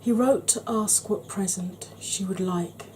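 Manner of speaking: measured poem reading with pauses between phrases; storytelling verse recital; poem recitation. Acted. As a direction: recite the verse evenly, letting each line fall. Recites grandfather's favourite poem.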